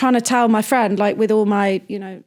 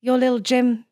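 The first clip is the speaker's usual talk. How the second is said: heartfelt ad; 2 semitones higher than usual. Shown as a demonstration. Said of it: "sort of a heartfelt insure".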